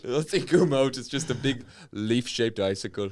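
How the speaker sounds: put-on comic Fargo accent. Northerner finds his syrup frozen solid, Fargo accent. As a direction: lay on Fargo-style rounded vowels. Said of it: "talk like Francis McDormand from Fargo".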